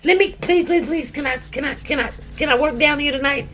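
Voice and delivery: high, whiny begging voice, imitating her; a pleading impression of the coworker; mock pleading. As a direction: beg over and over like a coworker angling for a favor. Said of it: "she gonna say".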